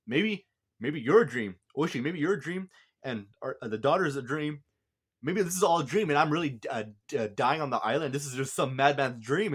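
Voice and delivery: retold distress, pitch swinging upward; emotional. Koichi wakes doubting everything is real, mildly distraught. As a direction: question it with mild rising desperation. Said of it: "really sad and emotional".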